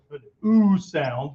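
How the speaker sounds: "ooh" stretched long and rounded, slow; drawn-out ooh. Shown as a demonstration. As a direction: let "ooh" linger slowly. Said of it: "Almost turns into a".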